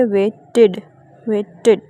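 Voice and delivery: "वेटेड" said with a separate id syllable at the end; "वेटेड": wei-ted, the ed said as its own syllable. Shown as a demonstration. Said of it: "आईडी sounds को pronounce करेंगे". ("वेटेड" में आख़िरी "ईडी" अलग syllable)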